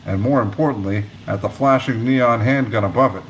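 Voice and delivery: steady read-aloud narration of a novel; audiobook-style reading voice; story narration. A narrator's reading. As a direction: tell the chapter to listeners. Reads chapter aloud.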